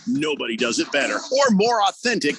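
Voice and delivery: radio commercial voice, a little gruff; ad read. Acted. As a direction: read it like a restaurant spot. Reading a radio ad.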